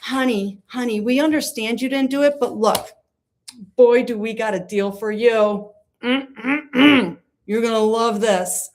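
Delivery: sugary huckster pitch, lightly voiced; mock sweet-talk salesman. Lawyers pitching the plea to their client, mock sugary salesman. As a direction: sell it like a cheesy deal.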